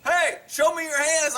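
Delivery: imitating PA command. Campus cop to parked couple over PA, mock command. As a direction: lightly mimic a cop ordering over a PA. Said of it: "gets on a P A".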